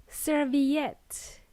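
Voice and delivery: serviette with a clear v, "ser-vi-ETT"; serviette, lip-on-teeth v in the middle; v sound. Shown as a demonstration. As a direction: say "serviette" slowly with a V. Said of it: "with a V".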